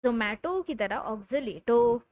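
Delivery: playful rhyme. Real, not acted. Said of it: "प्यार से कहते हैं oxalato".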